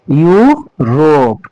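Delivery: यू रोप said slowly, syllable by syllable as "yoo-rop"; slow "यू रोप", each part clear; Europe spelled out. Shown as a demonstration. Teacher slowly showing students how to say यू रोप. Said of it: "इसका उच्चारण यू".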